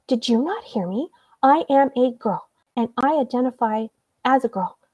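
imitating an indignant child correcting someone; retold exasperated insistence. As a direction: spell it out emphatically, word by word.

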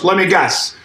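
imitated sarcastic guess. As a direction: put on a mildly mocking, knowing tone. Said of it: "All sarcastic".

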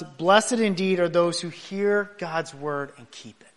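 slow, even, unhurried answer; calm reply. Retold or imitated. Jesus answering the woman, calm and slow. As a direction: answer her gently and slowly. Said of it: "Jesus calmly responds".

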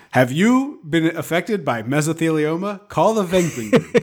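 slow, hammy TV lawyer ad read; injury lawyer ad. Pretend. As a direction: pitch it like a late-night ad. Mock law firm ad.

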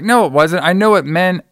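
high-pitched mock insistence; imitated insistent girl.

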